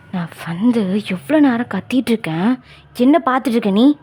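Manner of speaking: a hint of a cross professor; stern professor. (கண்டிக்கும் பேராசிரியரின் தாழ்ந்த குரல்)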